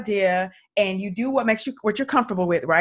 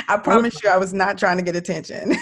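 laughing. Real, not acted. Host laughs, protesting.

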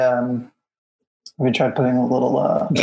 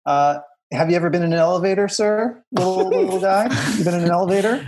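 put-on talking to a child; 5 semitones higher, faster than usual. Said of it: "elevator operator just peeks in".

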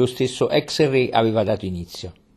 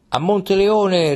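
echoed rallying cry; 8 semitones higher than usual. A narrator's reading. Troop echoes the king's march, higher slow rallying shout. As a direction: cry it back, rising with the troop. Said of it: "ripeté tutta la truppa".

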